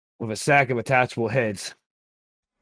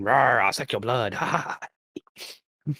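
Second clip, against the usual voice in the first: ventriloquist dummy voice; slower than usual. Acted. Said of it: "And he's talking".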